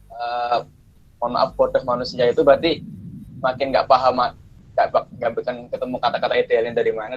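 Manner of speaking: usual speaking voice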